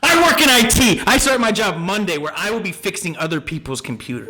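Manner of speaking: indignant rant right on the mic; worked-up, affronted self-defense; mad. Real, not acted. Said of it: "when I get mad, I get real close to it".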